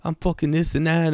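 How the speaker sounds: high tough-guy cholo voice; cholo kid impression. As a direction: mimic a mouthy wannabe gangster kid. Imitating the cholo kid again.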